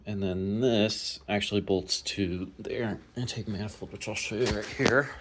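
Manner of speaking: shivering from the cold; speaking while shaking with cold. Real, not acted. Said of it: "sorry, I'm shivering".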